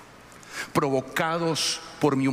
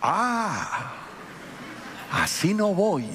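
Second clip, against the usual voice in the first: lightly voiced wife, high and amused; hint of the wife, laughing it out; mock wife with a laugh; 6 semitones higher, much slower than usual. Pastor mimics wife again, lightly, with a laugh. Wife repeats refusal, mocking.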